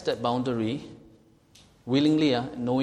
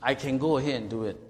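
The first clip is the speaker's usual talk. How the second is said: Singlish. Retold or imitated. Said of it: "brush the rule aside and say".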